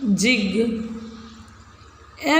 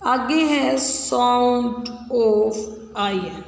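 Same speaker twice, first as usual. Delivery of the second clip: announcing the next sound; much slower than usual. Shown as a demonstration. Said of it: "आई एन इन लगा के".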